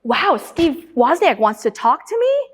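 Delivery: slow, mildly awed question; mock impressed amazement. Student approached by Apple's founder, mildly amazed imitation. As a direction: lightly act out a starstruck student. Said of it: "was so impressed".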